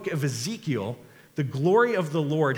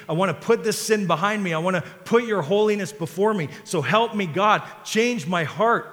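pleading prayer, building higher and louder; rising prayer; 5 semitones higher, 5 dB louder than usual. Acted. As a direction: pray it out with growing fervour. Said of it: "voiced prayer of the church".

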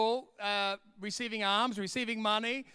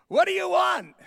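much higher and louder voice; squeaky high question; 11 semitones higher, 7 dB louder than usual. Pretend. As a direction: pitch it up in a silly squeak.

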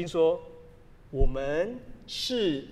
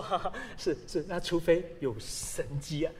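skeptical listener; 3 semitones lower, 5 dB quieter than usual. Retold or imitated.

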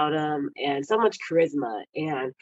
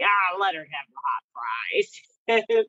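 lightly voiced coach; 2 semitones lower, slower than usual. Imitates coach indulging her.

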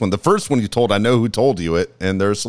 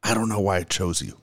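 wife's quiet jab; 2 semitones lower, 5 dB quieter than usual. Retold or imitated. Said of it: "All she says is".

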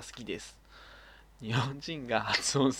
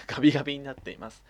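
ガビガビ repeated through a laugh, a bit louder; 6 dB louder, faster than usual. Shown as a demonstration. Amused by the letter, re-reading it laughing. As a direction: say ガビガビになっています again, cracking up.

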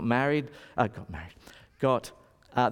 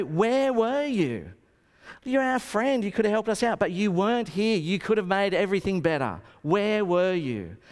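grieving sisters; 6 semitones higher than usual. Retold or imitated. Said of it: "they're in tears".

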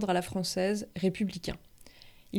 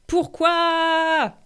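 indignant Facebook comment; 3 semitones higher, 5 dB louder than usual. Retold or imitated. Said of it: "Commentaire Facebook".

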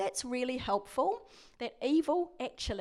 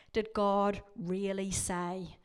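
slow, drawn-out doubting question; insinuating doubt; 3 semitones lower, slower than usual. Acted. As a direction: draw it out to plant doubt in Eve. Voices evil sowing doubt in Eve.

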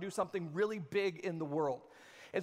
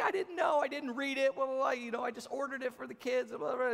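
higher, defensive mom excuse; 5 semitones higher than usual. Retold or imitated. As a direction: mimic mom brushing it off. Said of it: "And she's like".

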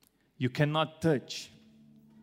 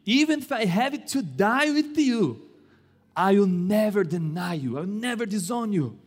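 emphatic insistence; 4 semitones higher than usual. Acted. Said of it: "But Peter insisted emphatically".

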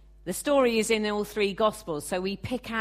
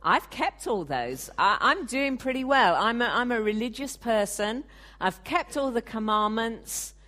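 higher, louder, self-satisfied boast; proud; 4 semitones higher, 3 dB louder than usual. Retold or imitated. Preacher voicing the rich ruler boasting to Jesus, proud and pleased. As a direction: puff up like a man sure of his goodness. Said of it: "was he proud".

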